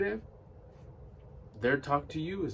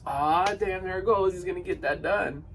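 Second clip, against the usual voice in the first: mock-excited supporter reacting to big news; excited reaction; 3 dB louder than usual. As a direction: play an excited friend cheering someone on. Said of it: "would get excited".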